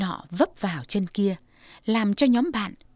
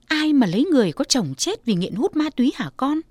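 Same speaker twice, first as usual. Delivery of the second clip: mother protests; 5 semitones higher, 4 dB louder than usual. Acted.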